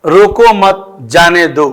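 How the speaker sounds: measured reading, pause after "मत"; sentence read out. Shown as a demonstration. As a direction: break briefly after मत, before जाने दो. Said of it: "वाक्य बोलते हैं".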